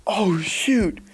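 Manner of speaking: whispered, stunned exclamation; overwhelmed whisper. Real, not acted. YouTuber taking in a gift from Yen Press, whispering. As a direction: whisper it to yourself in disbelief.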